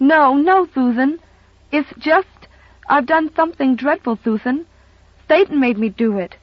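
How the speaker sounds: put-on high, fretful child confessing; a small girl blurting out her guilt; anxious little girl. Little girl confessing to housekeeper, anxious and high.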